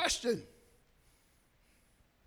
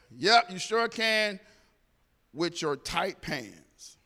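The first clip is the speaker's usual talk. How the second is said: slow, drawn-out sarcastic jab; slow it down and land the tease with a laugh; lightly mocking quip to the cop, trailing into a laugh; sassy comeback; 5 semitones lower, much slower than usual. Cheeky comeback to the officer.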